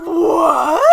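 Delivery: loud, high laughing shout; shocked what. Real, not acted. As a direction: yell it back in disbelief. Echoing stunned outburst.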